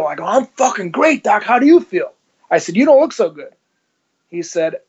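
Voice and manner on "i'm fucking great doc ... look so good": cocky swagger. Retold or imitated. Cocky reply to shocked doctor.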